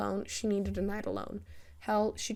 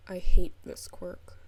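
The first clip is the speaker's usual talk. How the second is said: frustrated outburst; 2 semitones lower, 10 dB louder, slower than usual. A narrator's reading.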